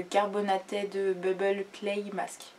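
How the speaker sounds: slow English product name with a French accent; rusty English accent from a French speaker. Real, not acted. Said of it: "avec mon superbe accent anglais".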